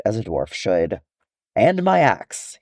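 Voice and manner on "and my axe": a dwarf's loud declaration, slow; slow, emphatic vow; said loudly. Acted. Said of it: "he said loudly".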